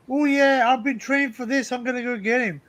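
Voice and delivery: a half-hearted hillbilly accent, hammed up a little. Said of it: "my accent's not very good".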